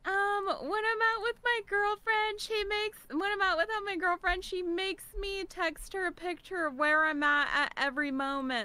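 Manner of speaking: high mocking whine; mocking whiny voice. Mocking viewers' questions.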